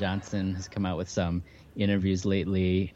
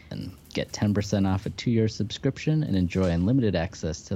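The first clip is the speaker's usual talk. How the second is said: upbeat promo read, smooth and steady; hard sell ad. Acted. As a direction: sell the offer like a radio spot. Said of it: "sponsor promo read over music".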